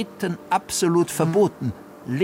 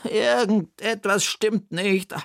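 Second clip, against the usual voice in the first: higher, lively aunt puzzling; raised character voice solving a riddle; Bertha's voice; 8 semitones higher, slower than usual. Acted. Bertha again.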